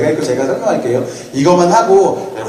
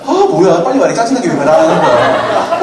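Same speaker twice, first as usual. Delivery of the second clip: mock annoyed listener. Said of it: "여러분 힘들잖아".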